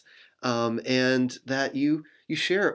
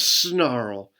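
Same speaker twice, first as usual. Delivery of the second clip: snarl. Acted. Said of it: "Bear snarls".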